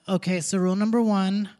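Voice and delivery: mock-drunk lawmaker laying down rules; lightly acted drunk speechmaking; drunk founding father. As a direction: play a tipsy man announcing rules. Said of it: "You have to be drunk".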